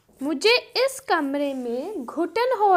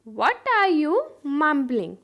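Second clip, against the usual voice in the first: broken-up teaching repeat; much slower than usual. Shown as a demonstration. Teacher repeats "What are you mumbling" for learners, in slow chunks. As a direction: pause before the last word.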